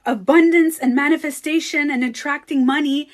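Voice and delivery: fast, loud, high indignant excitement; why aren't you excited?; retold disbelief. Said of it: "I was like".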